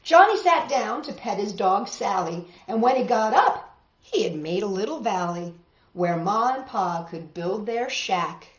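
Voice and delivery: rhythmic read-aloud storytelling; story narration. A narrator's reading. Teacher reading a tall tale to the class, rhythmic narration. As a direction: read the rhymes with a lilt for kids.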